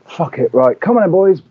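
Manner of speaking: rallying the dogs. Retold or imitated. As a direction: perk up and call the boys out. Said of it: "And I go".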